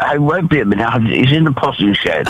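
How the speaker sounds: put-on old man voice. Shown as a demonstration. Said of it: "can I hear your old man voice one more time".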